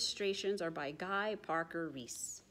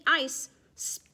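whispered ice; 6 semitones higher, 5 dB louder than usual. A narrator's reading. Slippery ice moment.

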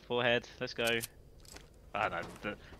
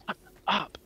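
higher, sharp scolding, quickening at the end; exasperated telling-off; 3 semitones higher than usual. Retold or imitated. Aunt telling off niece who won't stop arguing, exasperated scolding. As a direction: snap at a mouthy child. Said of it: "I'm like".

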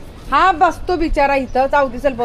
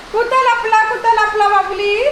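high-pitched playful searching; high teasing pet talk; baby talk; 7 semitones higher than usual. Pretend. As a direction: coo the question high to the hiding pet. Playing hide and seek with pet.

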